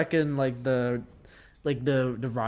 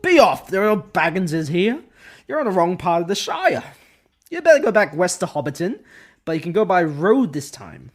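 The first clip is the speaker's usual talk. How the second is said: loud gruff farmer shouting strangers away; angry farmer bellowing; Farmer Maggot; 3 semitones higher, 7 dB louder than usual. Acted. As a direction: run them off the farm. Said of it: "Farmer Maggot's lines".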